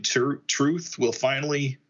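slow, halting start with a stutter; stammering. Acted. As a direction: trip on the first word, then draw it out. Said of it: "she kinda stammers".

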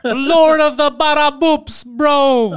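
slow, hammed-up stage voice; mock audition. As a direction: play it off as an audition. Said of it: "He coulda been like".

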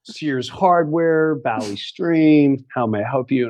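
imitated store phone greeting; mock-official department greeting, slow on the store name; all professional. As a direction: answer the phone like a professional clerk, drawn out. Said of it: "he's all professional".

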